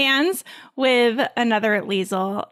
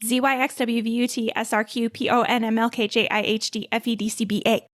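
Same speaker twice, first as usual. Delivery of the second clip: fast backwards alphabet. Shown as a demonstration. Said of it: "say the alphabet backwards very, very, very, very fast".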